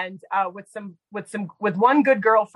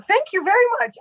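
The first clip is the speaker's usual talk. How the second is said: mock polite thanks; 11 semitones higher, 4 dB louder, faster than usual. Shown as a demonstration.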